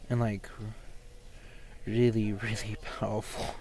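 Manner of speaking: breathless, airy speech; out of breath. Real, not acted. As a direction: talk while out of breath. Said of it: "it sounds like I'm out of breath".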